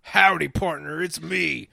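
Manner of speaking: put-on cowboy accent. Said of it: "he's doing the cowboy accent".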